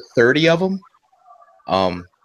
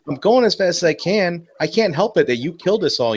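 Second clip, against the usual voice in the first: exasperated retort; 6 semitones higher than usual. Acted. Acting the pilot's imagined retort.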